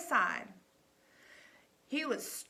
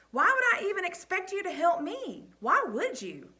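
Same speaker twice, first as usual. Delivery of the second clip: much higher, louder bitter retort; angry outburst; 9 semitones higher, 6 dB louder than usual. A narrator's reading. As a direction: keep lashing out. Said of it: "I snapped".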